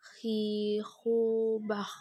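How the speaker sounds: "Khi, hu, bah" dengan gesekan kh di tenggorokan; seperti mendengkur. Shown as a demonstration. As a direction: dengkurkan bunyi kh pada "Khi". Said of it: "Ciri khas seperti suara orang". (kh mendengkur pada "Khi, hu, bah")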